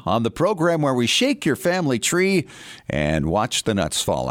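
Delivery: polished host intro and sponsor plug; radio show opening. Real, not acted.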